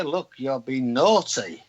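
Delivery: slow, carefully nice telling-off; polite reprimand. Acted. Man mimicking how councils must be spoken to, politely restrained. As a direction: put it properly and nicely, drawn out. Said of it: "you have to talk properly".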